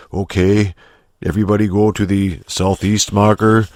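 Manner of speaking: put-on calm commander in a light German accent; relaxed German accent, giving orders. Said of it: "pardon my fucking German accent".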